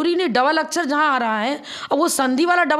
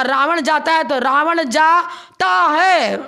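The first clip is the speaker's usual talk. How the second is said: slow, loud, laughing demo of रावण जाता है; amused slow classroom demo; slow demo reading; 2 semitones higher, 4 dB louder, much slower than usual. Shown as a demonstration. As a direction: sound out रावण जाता है word by word. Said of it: "अर्थ का अनर्थ हो गया".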